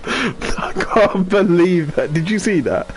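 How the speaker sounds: slow, high amazed voice; drawn-out amazement; stunned disbelief. Real, not acted.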